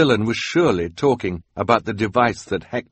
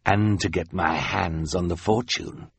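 sinister villain. Acted. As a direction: creep closer with greedy menace. Count Olaf creeps toward them.

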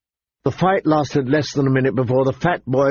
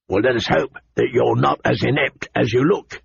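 scornful knight. Acted. Knight mocking new recruit.

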